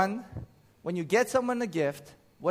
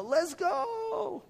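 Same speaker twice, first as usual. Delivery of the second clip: Rachel Chow's let's go; 13 semitones higher than usual. Retold or imitated. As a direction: belt out "Let's go." like a hype shout. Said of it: "as Rachel Chow does".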